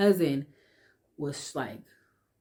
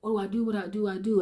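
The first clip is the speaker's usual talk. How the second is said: higher, desperate repeated question; panicked asking; 5 semitones higher, much faster than usual. Retold or imitated. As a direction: beg for an answer. Child begging God for help.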